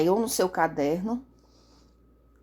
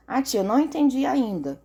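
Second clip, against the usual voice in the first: lightly voiced pupil, a little higher; pupil's mock plea to the teacher; imagined pupil; 5 semitones higher than usual. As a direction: lightly mimic a pupil owning up to confusion. Voicing a pupil's imagined question.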